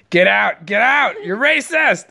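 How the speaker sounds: high playful outrage; mock outrage. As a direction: fake offended yelling.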